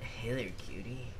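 low, lazy flirty cop voice; lightly voiced sleazy charmer; soft lazy flirty drawl. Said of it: "can you voice act that?".

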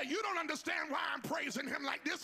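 high, loud shouted preaching; full-force preaching. Real, not acted. Preacher urging the congregation to believe what they heard, full-force shouted preaching. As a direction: belt out each phrase with driving fervour. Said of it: "I feel like preaching right here".

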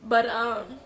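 high, teary voice through the sign-off; crying. Real, not acted. Signing off to her viewers, still crying. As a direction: say goodbye while still crying. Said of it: "I'm sorry I'm crying".

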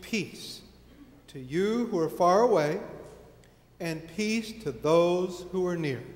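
measured reading with deliberate pauses; scripture reading. Acted. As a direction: read the passage solemnly, phrase by phrase. Reads scripture aloud to congregation.

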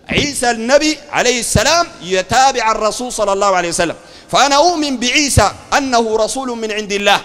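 measured, emphatic classical Arabic preaching; solemn doctrinal proclamation; formal creed declaration. Acted. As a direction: declare the creed phrase by phrase, drawing out the endings.

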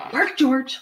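high, loud command; insistent mother. Acted. Mother dog telling George to try, insistent. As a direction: order the pup firmly. Mother orders pup to bark.

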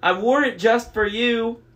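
high, loud coy falsetto; flirty fake bride voice. A narrator's reading. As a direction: flatter the monster in falsetto. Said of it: "in his falsetto voice".

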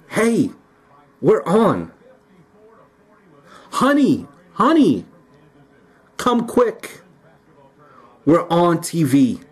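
high-pitched, excited call to a partner. Acted. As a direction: call your honey over to the TV, thrilled. Acted viewer calling partner to TV.

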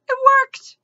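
loud, high burst of triumph; triumphant cry. A narrator's reading. Mendenbar seeing his spell succeed, crying out triumphantly. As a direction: cry it out in victory. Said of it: "he cried triumphantly".

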